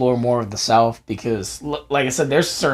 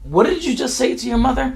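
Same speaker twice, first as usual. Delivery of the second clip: stern dad; 9 semitones higher than usual. Retold or imitated. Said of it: "He was like".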